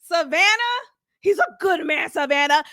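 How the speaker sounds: a light replay of the film mom, coaxing her daughter; quoting the movie mother. Retold or imitated. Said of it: "Shout out to Waiting to Exhale".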